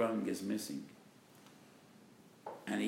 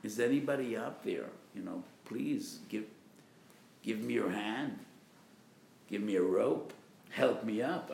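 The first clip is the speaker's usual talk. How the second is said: desperate plea. Acted. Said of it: "he screams and cries out of desperation".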